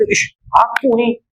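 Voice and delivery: slow, rueful self-scolding; self-reproach. Retold or imitated. Preacher ashamed of his own missed dhikr, slow rueful self-reproach. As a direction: mutter it at yourself, slowly. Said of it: "Saya kata".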